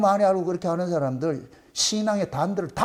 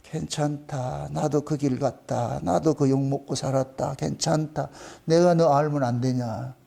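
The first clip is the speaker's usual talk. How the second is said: gentle comfort; 7 semitones lower, slower than usual. Pretend. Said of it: "주님이 내 마음을 확 이렇게 만져주셔서".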